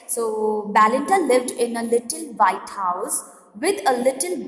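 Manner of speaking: slow, measured read-aloud of verse; poem reading. Acted. Teacher reading a humorous poem to students, slow recitation. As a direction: read the stanza out slowly, phrase by phrase.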